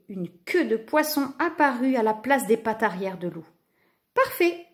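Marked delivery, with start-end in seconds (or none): 4.1-4.7 high, pleased approval; smiling. A narrator's reading. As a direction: approve with a smile in the voice. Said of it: "sourit le roi".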